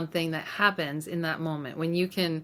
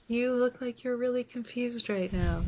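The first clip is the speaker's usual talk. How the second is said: softly, with a hint of a tender adult comforting a child; a touch of kindness, eye level with a scared child; gentle compassion; 6 semitones higher, 4 dB quieter than usual. To her five-year-old self, mildly tender and compassionate. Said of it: "with so much compassion and kindness".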